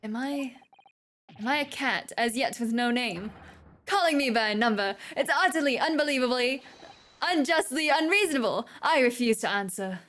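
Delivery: a proud scholar's outraged protest; indignant, theatrical complaint; indignant prisoner. Acted. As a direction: demand respect, huffing with offense.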